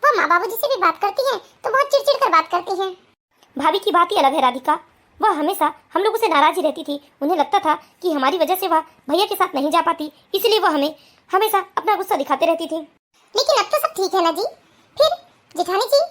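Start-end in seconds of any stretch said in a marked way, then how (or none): 3.5-12.8 lower, calm husband voice; lowered male voice, steady. Acted. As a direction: explain patiently to your new wife. Husband explains sister-in-law to Radhika.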